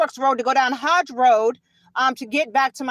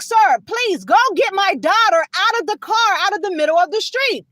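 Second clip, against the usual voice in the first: higher-pitched insistent appeal; retold urgent pleading; 5 semitones higher than usual. Mother in police car pleading for her daughter, retold urgency. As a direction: re-enact begging an officer to help.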